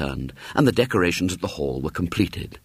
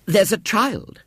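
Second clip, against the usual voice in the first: shaken manageress; 13 semitones higher, 3 dB louder, slower than usual. A narrator's reading. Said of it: "She looked pale and shaken".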